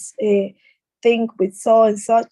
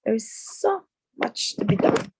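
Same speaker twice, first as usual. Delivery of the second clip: "so" held out before "much"; stress on so much; 4 dB quieter than usual. Shown as a demonstration. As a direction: lean on "so", pause, then "much". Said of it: "that's what I heard".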